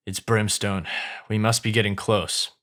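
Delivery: a hint of ominous observation; grave ogre. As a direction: lightly play a low-voiced ogre sensing danger. Voices Shrek, grave observation.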